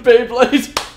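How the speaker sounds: high, loud anime cry; excited shout. Pretend. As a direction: belt it like a cartoon kid.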